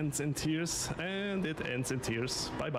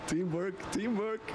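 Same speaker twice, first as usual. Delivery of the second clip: excited; 7 semitones higher than usual. Real, not acted. Celebrating teamwork in race.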